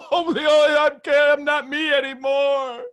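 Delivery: a hint of a distraught woman; old story's voice. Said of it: "the old story's going".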